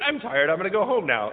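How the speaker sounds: lightly imitated Southern accent; a touch of a Southern accent, understated; Forrest Gump. Forrest Gump tells his followers he's done, mild Southern accent. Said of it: "in his, like, weird southern accent".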